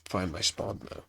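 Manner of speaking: blocked nose, stuffy voice; congested. Real, not acted. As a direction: talk through a stuffed-up nose. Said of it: "I'm a bit congested as well".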